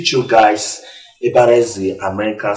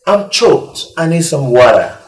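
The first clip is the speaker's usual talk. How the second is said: demo line; 3 semitones higher than usual. Shown as a demonstration. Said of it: "Say it".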